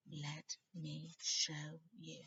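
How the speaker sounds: slow, coaxing diary voice; slow, drawn-out Riddle. Acted. The diary luring Harry in, slow and drawn out. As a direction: draw each word out, luring.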